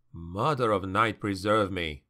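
usual speaking voice

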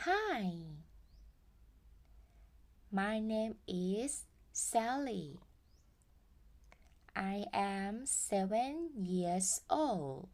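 put-on cheerful kid intro for the class; a hint of a little girl; voicing Sally. Teacher voicing child Sally.

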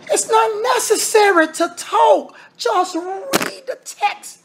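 high-pitched exasperated preaching, stretching out the end; exasperated plea. Real, not acted. Preacher exasperated with brethren who add talk.

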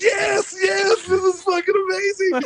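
high-pitched retold cheer; hammed-up fan elation; ecstatic. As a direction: re-enact being overjoyed, voice way up. Retells own ecstatic reaction.

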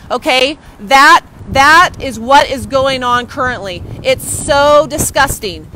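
slow, loud, deliberate outrage; disgusted, measured fury; slow anger. Real, not acted. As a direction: spell out the outrage word by word. Reacting to custody news.

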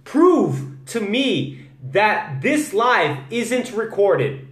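Prove to me that this live isn't recorded, drawn out very slowly; slow model sentence. Shown as a demonstration. Teacher gives an example sentence to learners: very slow and clear. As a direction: say the sentence slowly for the class to copy. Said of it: "Prove é o verbo".

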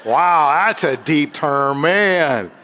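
chuckling over the term; laughing. Real, not acted. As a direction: laugh as you repeat it.

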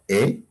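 "E" as a pure Spanish vowel; vowel demonstration. Shown as a demonstration. Teacher points out each Quechua vowel, "E" as in Spanish. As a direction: give a clean, rising "E". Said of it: "aquí se pronuncia".

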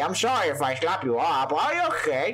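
playful mock British swearing; British accent, cheeky and rough. British Mario voice continues.

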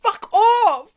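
heated, rising dismissal; frustrated. Real, not acted. Viewer telling character off, frustrated. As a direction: tell them off, really fed up. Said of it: "I'm frustrated".

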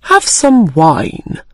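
slow, courteous offer; polite. Acted. Mad Hatter politely offering Alice wine, slow and courteous. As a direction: offer it graciously, taking your time. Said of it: "the Mad Hatter said politely".

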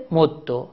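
مدو with a doubled dal ending in short o; assimilated, damma ending. Shown as a demonstration. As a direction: hold the dal of مدو, then release -do. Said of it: "چهار وجه در اینجا". (مدو با دال مشدد و ضمه)

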